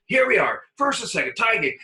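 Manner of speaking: high, loud put-on complaint; manager's mock rant. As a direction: rant it up high like a furious skipper. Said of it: "and he goes".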